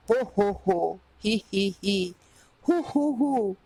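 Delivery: hammed-up ho ho laugh; mock laughter. A narrator's reading. The king laughing at the fallen witch, mock laughter. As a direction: read the laugh out in a playful ho-ho. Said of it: "he started laughing".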